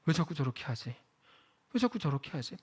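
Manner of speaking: a murmured, sighing question to oneself; quiet lament. Retold or imitated. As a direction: mutter the complaint softly, puzzled. Preacher voices inner lament. (낮게 중얼거리는 한탄)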